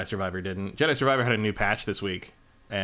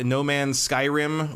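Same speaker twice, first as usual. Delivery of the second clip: laughing; 3 semitones higher, much slower than usual. Real, not acted. Joking about a game mashup.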